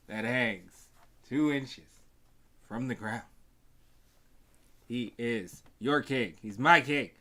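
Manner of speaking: booming ring-announcer intro building to a shout. Pretend. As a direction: announce the champion to the arena.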